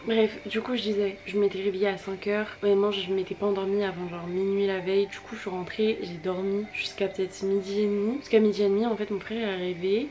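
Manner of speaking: talking over a vacuum cleaner. Real, not acted. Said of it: "désolée si vous entendez l'aspirateur".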